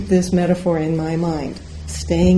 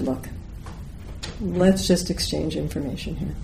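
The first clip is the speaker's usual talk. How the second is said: composed; 7 dB quieter than usual. Retold or imitated. Woman trying to settle a crash dispute, composed. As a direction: rein it in and speak evenly. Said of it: "I got a hold of myself".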